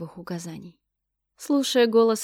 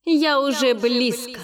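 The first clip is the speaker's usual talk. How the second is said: грозный голос богини; 4 semitones higher, 6 dB louder than usual. Acted. Богиня грозит сквозь бурю.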